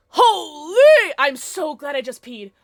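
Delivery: loud, slow drawn-out relief; shaken relief. Real, not acted. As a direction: gasp it out after the scare. After jump scare.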